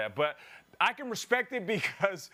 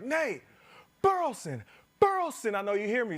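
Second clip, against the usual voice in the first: heckler calling out; 4 semitones higher than usual. Retold or imitated. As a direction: call his name like a fan heckling from the rail.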